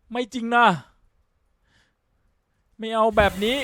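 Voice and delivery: ร้องโอดครวญเสียงสูงดัง; โวยไม่อยากเชื่อว่าเกมบั๊ก; โวยวาย. Real, not acted. เกมบั๊กจนโวย. (เกมบั๊กจนต้องโวย เสียงสูงดัง)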